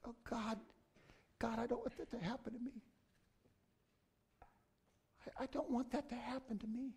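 soft, hushed plea to God; inner prayer. Retold or imitated. Pastor voicing his private prayer, softly pleading. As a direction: pray it under your breath, pleading. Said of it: "I think to myself".

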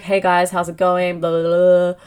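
flat, droning, no intonation at all; bored monotone read of a video intro; draining monotone. Shown as a demonstration. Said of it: "really draining and monotone".

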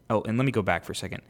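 normal talking voice

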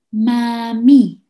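gentle "Mami". Shown as a demonstration. Coaching parents on a child's gentle "Mami". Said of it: "despacito, con esta voz".

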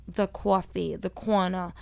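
rounded Brooklyn "aw" vowels; thick Brooklyn vowels in coffee and corner; Brooklyn accent. Shown as a demonstration. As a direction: show off Brooklyn "cawfee" and "cawna". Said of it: "my Brooklyn accent".

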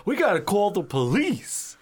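high mock-dramatic line reading; imitating a cheesy horror actor; cheesy movie line. Quoting movie character line.

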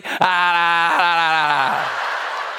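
real laughing bursts; hearty laughter trailing to breath. Real, not acted. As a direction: laugh it out, breaking off. Laughing at the story.

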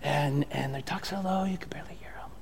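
whisper. Shown as a demonstration. Pastor imitating a low talker to the church, whispering. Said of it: "a low talker".

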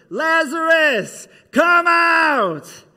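commanding shout to the dead friend. Acted. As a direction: call him out of the tomb. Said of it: "Jesus just shouted".

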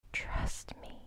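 soft breathy whisper in the ear. Acted. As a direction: whisper it close and intimate. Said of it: "you whisper into my ear".

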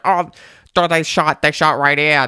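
lightly voiced surprised local; mock amazed Boston tourist; tourist exclamation. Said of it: "be like".

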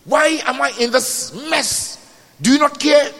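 high, pleading cry to God. Acted. Preacher voicing someone in debt, crying out to the Lord. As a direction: protest upward in distress. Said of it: "you cry out and say".

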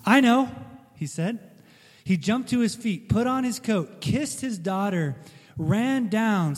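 put-on lively storybook read-aloud for kids; animated bedtime-story narration; reading to children. A narrator's reading. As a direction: tell it like a Sunday school story to children.

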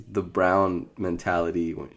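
normal talking voice

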